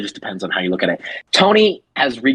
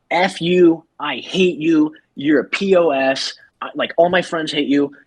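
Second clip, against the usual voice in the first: mock-angry, raised pitch; retold angry outburst; 4 semitones higher, slower than usual. Emily tells off Tony at the bar, mock angry. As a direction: act out her indignant tirade, slightly raised. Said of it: "they're, like, both being really loud".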